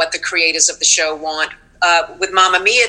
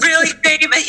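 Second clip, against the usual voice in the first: pitched-up put-on voice of a clueless actress; airy grand lady; 9 semitones higher than usual. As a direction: play the vague, self-important star. Mocking her clueless early self.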